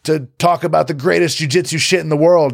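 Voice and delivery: upbeat show opener; enthusiastic host intro. Shown as a demonstration. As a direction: hype the crowd up. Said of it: "if you say it like this".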